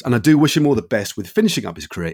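podcast outro. Acted. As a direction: read a measured host's farewell. Recorded sign-off after the interview.

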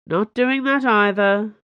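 steady, deliberate refusal; firm refusal. Acted. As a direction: shut the idea down, no room to argue. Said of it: "Athos said firmly".

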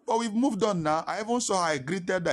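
loud, high-pitched objection; protesting excuse. Acted. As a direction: protest loudly as a reluctant listener would. Acted objection to apologizing.

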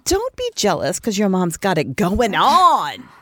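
drawn-out, playful gloat; slow taunt, swelling on the last words; sassy mock bragging. Mom teasing her jealous son, sassy and slow.

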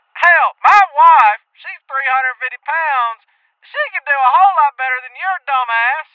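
angry prank caller. Acted. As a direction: chew out the radio host over the phone. Angry caller insults host.

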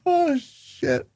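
wheezing with laughter; crying with laughter; laughing to tears. Real, not acted. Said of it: "I might die".

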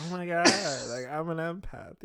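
lightly put-on Valley Girl, last words stretched out; Valley Girl accent. Co-host showing the impression they did, Valley Girl accent. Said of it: "a Valley Girl accent".

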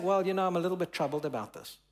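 quick, offhand mild concern; casual understatement. Retold or imitated. Preacher mimicking a mild version of Jesus's words, offhand. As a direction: toss it off lightly, a little rushed. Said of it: "he's not just saying".

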